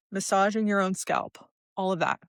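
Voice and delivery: talking while chewing gum; words round a piece of gum. Real, not acted. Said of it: "I'm chewing gum right now".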